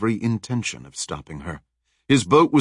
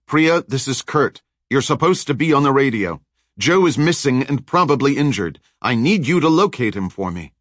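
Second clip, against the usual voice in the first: urgent radio call; 5 semitones higher, 3 dB louder than usual. Acted. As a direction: press her hard to answer.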